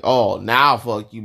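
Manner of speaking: finally angry, slowly; 1 belated fuck you. Retold or imitated. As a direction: southerner after being robbed. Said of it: "Then it's like".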